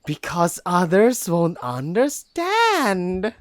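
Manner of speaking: slow, soft, growling snap; soft melodic growl. Acted. She-wolf finally snapping at the human, a slow soft melodic growl. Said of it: "snaps at me with a soft, almost melodic growl".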